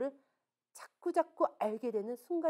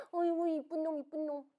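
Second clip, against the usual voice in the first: put-on higher, doting baby talk; cooing mother; 4 semitones higher than usual. Mother kissing her son, cooing fondly. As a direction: coo over a beloved little son.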